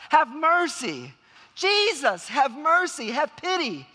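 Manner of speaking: loud, high, drawn-out begging; shouting plea. Retold or imitated. Blind beggar begging Jesus for mercy, shouting. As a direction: cry out for mercy over a crowd. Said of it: "he shouts".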